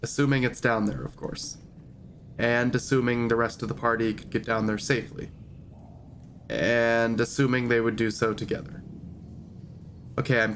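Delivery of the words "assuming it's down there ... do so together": recap narration. Acted. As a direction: tell the story so far. Reads recap of last session.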